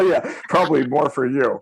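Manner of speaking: talking through a laugh; amused agreement. Real, not acted. Agent agreeing with woman colleague's joke, laughing. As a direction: let laughter run under the words.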